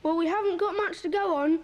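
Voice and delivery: talking round a humbug; mouth full. Real, not acted. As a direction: speak with a sweet in your mouth. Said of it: "I'm going to take this humbug out of my mouth while I talk".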